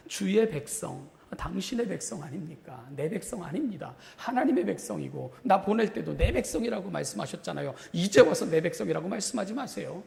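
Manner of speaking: indignant protest. Acted. Moses disowning the people before God, protesting. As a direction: argue back, pitch climbing as you go.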